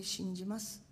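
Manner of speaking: a barely audible, fading "信じます"; faint voice. Retold or imitated. The president whispering his faith, faint and fading. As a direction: let "信じます" almost vanish. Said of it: "消えるような声で".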